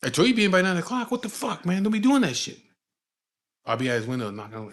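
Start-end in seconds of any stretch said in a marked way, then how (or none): 0.0-2.6 imitating high-pitched outraged scolding; pissed off. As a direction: tell off whoever woke you, mock furious. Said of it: "he would be pissed off".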